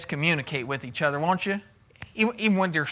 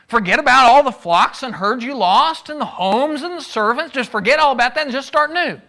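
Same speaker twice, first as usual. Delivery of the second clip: glib advice; 3 semitones higher than usual. Retold or imitated. Zophar's glib advice voiced.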